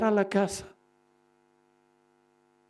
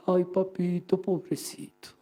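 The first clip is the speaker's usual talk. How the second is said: mock self-pity; 4 dB quieter than usual. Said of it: "te hace sentir como si fueras".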